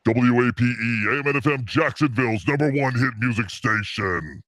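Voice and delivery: lightly voiced radio station ID. Shown as a demonstration. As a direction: announce the station like a DJ. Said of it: "the radio voice".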